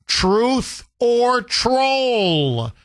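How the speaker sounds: very slow, high drawn-out segment title; announcer. Real, not acted. Radio host introducing a favorite segment, drawn-out announcer call. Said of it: "One of your favorite segments".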